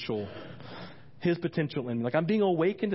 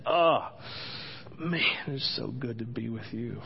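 lower, relieved murmur to Jesus; contented prayer; 3 semitones lower than usual. Retold or imitated. Pastor retelling time with Jesus, contented. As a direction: sink into it after the opening oh.

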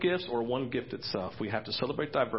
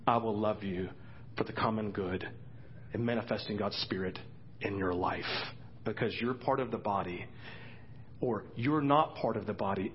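tender reassurance. Retold or imitated. Tender voice loving the church.

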